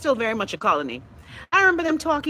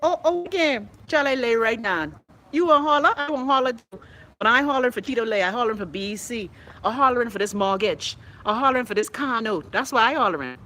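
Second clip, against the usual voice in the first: mock tantrum; 3 semitones higher than usual. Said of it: "I said".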